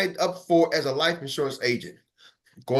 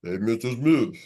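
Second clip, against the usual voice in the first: a deep, low-pitched "Hey, Mister Smith"; mock cold call in a low voice; low voice try; 8 semitones lower than usual. Shown as a demonstration. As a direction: drop the voice way down for the greeting. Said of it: "you start changing up".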